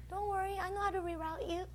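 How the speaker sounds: light, hushed fatherly comfort; loving Father's voice. Acted. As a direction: gently brush the worry away. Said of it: "The Father's voice is loving".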